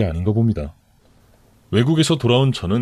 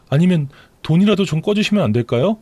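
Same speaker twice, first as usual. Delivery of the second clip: higher, tearful-sounding plea from the mistress; pleading mistress; 6 semitones higher than usual. Acted. Mistress begging her lover's sister for help, pleading.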